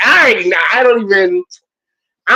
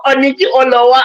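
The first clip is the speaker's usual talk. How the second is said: laughing shout; 7 semitones higher than usual. Real, not acted.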